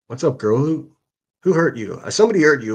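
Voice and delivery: mock concern, talking down to her; patronizing pity aimed at the angry commenter; mocking sympathy. Real, not acted.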